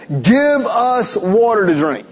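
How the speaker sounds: slow, insistent demand, spoken as the grumbling people. Retold or imitated. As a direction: make it a demand, not a request. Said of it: "it's demand".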